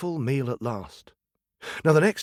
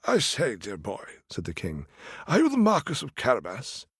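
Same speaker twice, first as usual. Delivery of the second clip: put-on politely curious old monarch; lightly voiced king. King asking the young man his name, lightly voiced.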